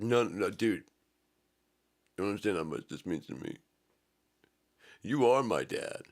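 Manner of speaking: insist, voice rising with emotion; excited pleading. Acted. Man pleading with FedEx guy.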